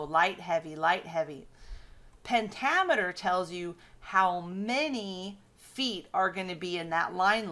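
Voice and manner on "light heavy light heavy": "Light, heavy" recited as paired beats; light-heavy rhythm. Shown as a demonstration. Teacher showing where stress goes, in rhythmic pairs. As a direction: tap out "Light, heavy" in two even pairs. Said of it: "where does the stress go?".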